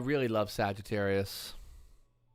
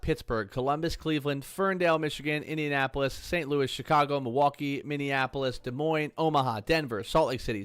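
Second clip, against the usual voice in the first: one long run with no breath; all in one breath. Shown as a demonstration. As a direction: rattle off the list without breathing. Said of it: "I'm gonna try to do it in one breath".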